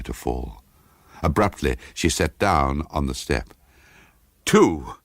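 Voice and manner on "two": tense counting. A narrator's reading. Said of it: "she counted again".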